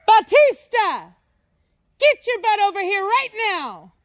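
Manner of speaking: high, loud stern call; ordering the dog over from far away; calling out sternly. Real, not acted. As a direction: yell for the dog to get back.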